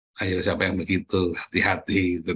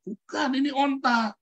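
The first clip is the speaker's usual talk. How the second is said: insistent teacher. Retold or imitated.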